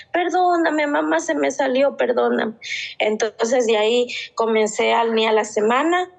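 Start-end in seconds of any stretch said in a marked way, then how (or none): 0.1-2.5 higher, frightened apology; pleading child. Retold or imitated. Mother voices daughter begging forgiveness, frightened. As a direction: plead like a scared little girl.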